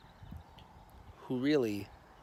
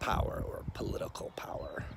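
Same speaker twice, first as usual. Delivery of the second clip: whisper; 7 dB quieter than usual. Acted. Whispered aside in political musing.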